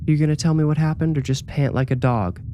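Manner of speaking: firm mother cutting to the point; cool, commanding mother. Acted. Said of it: "her voice cool but commanding".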